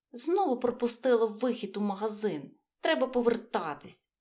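small mouse talking to herself. Acted. Mouse speaks in children's story. (легкий голос мишки)

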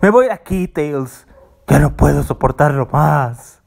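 storming off. Acted. Angry exit, leaving the house.

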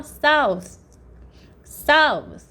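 "south" said high, final th without voice; voiceless th. Shown as a demonstration. Teacher warns vocal cords must not buzz, voiceless th. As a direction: let "south" end in pure unvoiced air. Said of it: "안 울려야 돼요".

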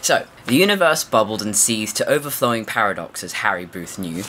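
lightly puffed-up literary narrator; pompous reading. Acted. Podcaster reading the novel's overblown opening aloud, mildly pompous. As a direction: read it out with a touch of pomposity, dropping away at the end. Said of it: "imagine it in that kind of voice".

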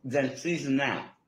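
talking while chewing; mouth full. Real, not acted. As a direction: talk through a mouthful of food. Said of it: "Stop talking with your mouth full".

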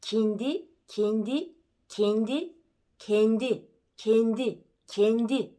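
"kendi" moving step by step from an I toward a closed E; I shifting to E. Shown as a demonstration. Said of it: "yavaş yavaş E'ye doğru çevirmeye".

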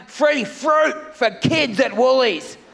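slow shouted sign slogan; mock announcement. Comic reading the Woolies sign aloud as a slow shouted ad. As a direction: boom it like a store ad.

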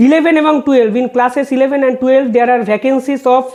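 reading a court order word by word, very slow; slow, measured legal read-out; slow formal reading. Acted. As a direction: spell out each figure deliberately for the record. Reads vacancy figures from judgment.

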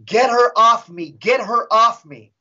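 mock yell in a possessed voice; retold scratchy demon yell. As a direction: cry out as the tormented spirit, half-voiced. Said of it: "yelling in another scratchy voice".

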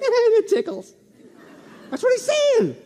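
high, laughing delivery. Real, not acted. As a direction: laugh through the joke. Laughing at kids with vipers.

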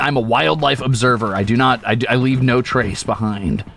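nature documentary. Pretend. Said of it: "this is a documentary".

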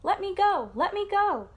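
high, loud piglet squeal; storybook cry of a struggling piglet. A narrator's reading. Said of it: "The piglet kicked and squealed".

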